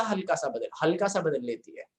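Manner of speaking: teacher stressing हल्का to the class. Real, not acted. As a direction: lean on हल्का as the key word. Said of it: "stress दे रहा हूं मैं".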